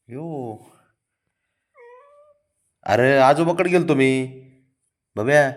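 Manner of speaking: put-on high, loud coaxing baby talk to a sulking pet.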